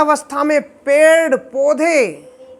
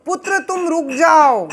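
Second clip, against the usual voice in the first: distraught father; 4 semitones higher than usual. Acted. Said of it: "व्याकुल हो गए वेद व्यास जी".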